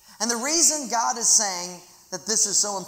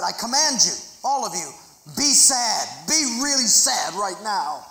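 louder, mock-stern decree; commanding voice; 4 dB louder than usual. Shown as a demonstration. Preacher ordering the congregation to be sad, mock command. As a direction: order them to feel sad. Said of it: "For example, right now, if I said".

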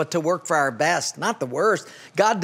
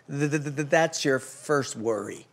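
put-on stuttering old man punchline; 5 semitones lower, 6 dB quieter than usual. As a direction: stammer out the punchline like the nervous old shop owner. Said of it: "the elderly man looked up and said".

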